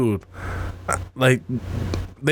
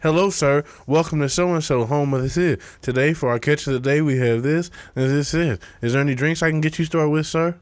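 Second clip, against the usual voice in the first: a higher, eager polite server voice; polite waiter; 4 semitones higher than usual. Retold or imitated. Comic retelling of a polite server welcoming a diner. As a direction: play the overly courteous waiter greeting a guest. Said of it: "He was like".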